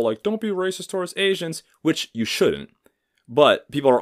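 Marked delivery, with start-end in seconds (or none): 0.2-1.6 mock preachy slogan. Mocking people's slogan.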